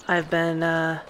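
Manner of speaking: puffing from the long walk; breathy and winded; out of breath. Real, not acted. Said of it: "I'm starting to get pretty sweaty".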